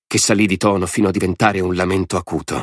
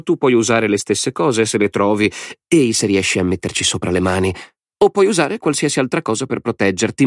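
high, gleeful madman's voice; a mad lord savouring the game; Lord Alvin; 6 semitones higher than usual. A narrator's reading. (voce alta di signore folle e allegro)

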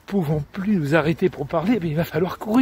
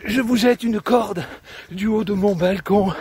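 lightly voiced woman calling from balcony, higher; eager command, lifted in pitch then easing down; a hint of an amorous lady giving orders; lovestruck woman ordering; 5 semitones higher than usual. Woman calls bourreau from balcony.

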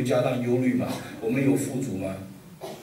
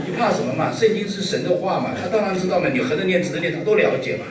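raised, breezy mock pastor voice; 6 semitones higher than usual. Preacher mocking a pastor who teaches tongues, pitched up and breezy. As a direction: play the pastor brushing off worries, pitched up.

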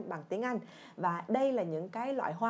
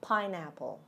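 PINEapple, weight on "pine"; stress on first syllable; 2 semitones lower, 3 dB quieter than usual. Shown as a demonstration. Teacher drills learners on stress, first-syllable PINEapple. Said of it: "Cùng nhấn âm một mọi người nha".

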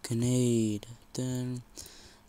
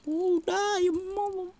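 angry yell; 6 dB louder than usual. Real, not acted. Shooting an enemy.

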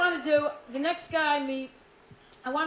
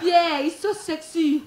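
mock sultry swoon; 2 semitones higher, 5 dB louder, slower than usual. Porn actress swooning over maintenance man.

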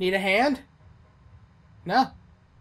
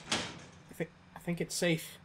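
whispering while hiding; 17 dB quieter than usual. Real, not acted. Hiding, monster nearby.

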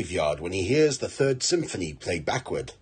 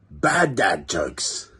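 drawn-out, deadpan intro call; slow title announcement; 3 semitones lower, much slower than usual. Acted. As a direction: announce it slowly like a show title.

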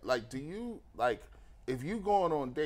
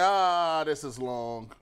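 loud drawn-out "Ah", then dropping; exaggerated groan of impatience; mock complaint; 4 dB louder, much slower than usual. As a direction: imitate bored viewers moaning. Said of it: "the chat was like".

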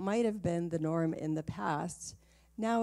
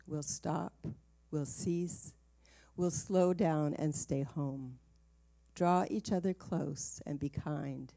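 poem reading. Acted. Reads a poem tribute.

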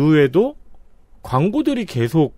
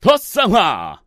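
ad tone; 5 semitones higher, much slower than usual. Shown as a demonstration. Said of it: "저는 이제 톤으로 알려드리는 거죠".

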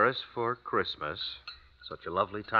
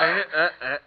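effortful grunts; 7 semitones higher, 6 dB louder than usual. Acted. Pulling wife up through snow.

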